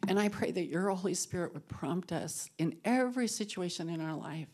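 softening, reverent prayer voice; closing prayer. Acted. Leading the women in a closing prayer, reverent and fading. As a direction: pray over the group, growing hushed.

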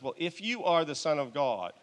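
lightly voiced devil. Devil testing Jesus in the retold story, lightly voiced challenge. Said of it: "Devil comes and says".

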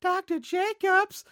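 low, slow, eerie calling; too calm creepy doll. Retold or imitated. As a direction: drift the name out like a ghost. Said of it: "the creepy, scary twins from The Shining".

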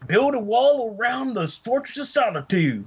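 proud redneck joke voice. Pretend. Redneck bit continues.

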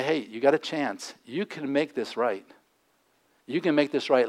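softly voiced second chance; hushed, lightly acted reassurance; gentle urging. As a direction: offer hope quietly, as if to a friend. Voicing Jesus offering a second chance.

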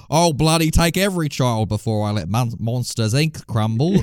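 hammed-up Australian-accented villain; Mister Waternoose. Host imagines the villain as Australian, Aussie accent impression. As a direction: play the spider boss as a broad Aussie. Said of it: "Mister Waternoose from that movie was Australian".

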